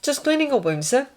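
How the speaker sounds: high-pitched, reassuring orderly; mildly soothing, at normal volume. Acted. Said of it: "said as reassuringly as he could".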